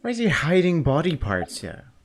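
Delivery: loud, disgusted outburst; outraged. Real, not acted. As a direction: shout it in disbelief. Outraged at discovery.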